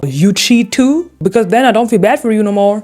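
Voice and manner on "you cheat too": slow, rising disbelief; shocked. Real, not acted. Reacting to the boyfriend's confession, slow shock. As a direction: drag out the shock. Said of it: "shocked reaction to confession".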